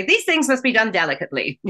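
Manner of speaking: said quickly and lightly, just thrown away; quick throwaway. Shown as a demonstration. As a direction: rush the line, toss it off. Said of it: "You can't just say".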